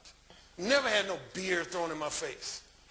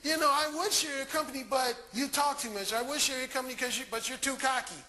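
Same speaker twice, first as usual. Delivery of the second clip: higher imitated female voice; mock excuse-making, pitched up and running on; woman making excuses; 4 semitones higher than usual. Woman qualifying why she won't share company, imitated higher voice. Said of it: "starts qualifying why she shouldn't".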